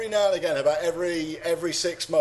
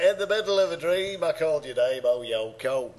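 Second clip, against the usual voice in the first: a singer; 2 semitones lower than usual. Acted. Podcaster repeating co-host's lyric as a band member, Liverpool accent. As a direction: put on a nasal Scouse rock singer. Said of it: "I'm not very good at Liverpool".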